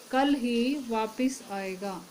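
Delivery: slow, leaning on "ही" in "कल ही वापस आएगा"; teacher slowly stresses "ही" for the class. Shown as a demonstration. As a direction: drag it out, press on "ही". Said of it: "इसमें ही जो शब्द है, इसने वा-, वाक्य पे एक जोर डाला है".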